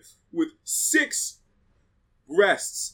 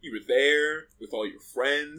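slow accusing; 4 semitones lower, slower than usual. Retold or imitated. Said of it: "or she's like".

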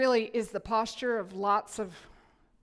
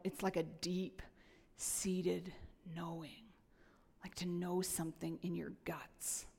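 soft breathy whisper, much quieter; hushed, intimate; 3 semitones lower, 11 dB quieter, slower than usual. Real, not acted. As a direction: lean in and whisper it like a secret. Explaining deep knowing, hushed.

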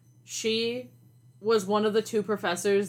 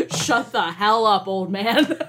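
put-on louder, slower retort to the old professor; 6 dB louder, slower than usual. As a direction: punch it out slowly and louder.

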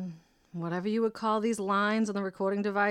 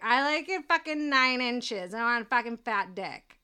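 put-on eager bar girlfriend; 4 semitones higher, 3 dB louder than usual. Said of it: "girls who are gonna be like".

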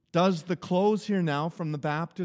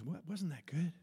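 soft, hushed voiced whisper; God; 3 semitones lower, 10 dB quieter than usual. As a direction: speak very softly, with pauses. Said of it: "God whispers".

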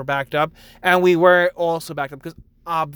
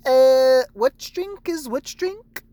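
much higher, slow puzzled question; confused customer; 9 semitones higher, 4 dB louder, much slower than usual. Retold or imitated. Customer at the pickup counter, high slow confusion. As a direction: play the lost customer. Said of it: "when people are like".

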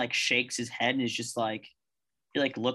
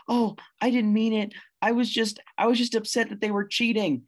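high, fast panicked begging; cowering monkey begging the gorilla, very high and fast; terrified pleading monkey; 10 semitones higher, 4 dB louder, faster than usual. Acted. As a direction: squeak out excuses in terror.

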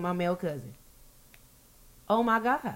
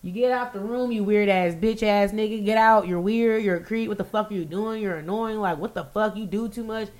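retold rapid-fire telling-off; going off. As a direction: reel off the insults, moderately heated. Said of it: "And I'm going off".

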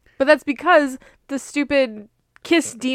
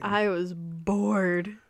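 very slow, softer, stretching BORED; drawn-out boredom; 6 dB quieter, much slower than usual. Real, not acted. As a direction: drag out "bored" to stress the tedium. Same remark repeated for emphasis.

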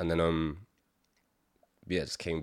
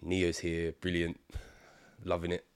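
deadpan sarcasm; 4 dB quieter than usual. Retold or imitated. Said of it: "I was like".

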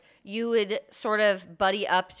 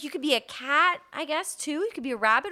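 imitating dad; 7 semitones higher than usual. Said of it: "He was like".

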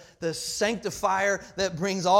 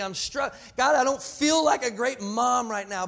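acted confession, pitched up and pushed; impassioned mock prayer; 3 semitones higher, 3 dB louder than usual. Preacher voicing a struggling parent praying, impassioned plea. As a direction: plead with God, raised and forceful.

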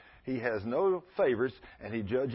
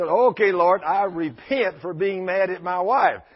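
loud repentance; 4 semitones higher, 7 dB louder, slower than usual. Retold or imitated. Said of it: "So he said".

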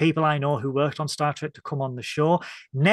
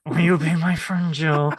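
eerie doll voice, louder; talking doll; 4 dB louder than usual. Acted. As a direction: repeat it like a haunted toy. Echoing the creepy doll line.

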